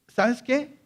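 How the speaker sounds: "¿sabes qué?" snapped high with a rising end; mock harsh retort. Shown as a demonstration. Jesus answering the pleading woman, sharp rising retort. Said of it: "No, no lo digo así".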